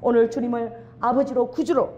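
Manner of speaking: earnest closing prayer to the Father; fervent prayer. Acted. Pastor leading the congregation in closing prayer, fervent. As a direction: pray with rising fervor.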